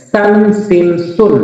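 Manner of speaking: slow, spaced "সান সিন সুন"; teacher slowly modelling each syllable; syllable-by-syllable demo. Shown as a demonstration. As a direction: draw out each syllable for learners. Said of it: "এভাবে সহজ করে আপনি শিখতে পারেন".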